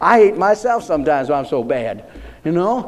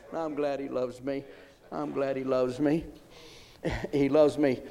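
hushed; 3 semitones lower, 12 dB quieter than usual. Real, not acted. Sudden soft after climax.

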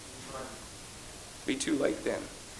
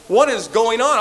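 exasperated cry; 7 semitones higher, 8 dB louder than usual. Acted. Acted confused believer crying out.

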